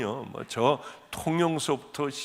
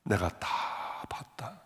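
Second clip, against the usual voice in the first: divine voice; 5 semitones lower, 7 dB quieter than usual. Retold or imitated. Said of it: "첫 말씀은".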